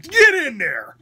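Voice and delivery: loud, high re-enacted shout; yelled order. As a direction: yell it as an exasperated command. Retold yelled order to the nurse.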